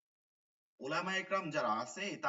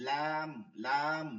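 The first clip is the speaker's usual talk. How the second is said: slow recitation; much slower than usual. Shown as a demonstration. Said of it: "মিমে জজম".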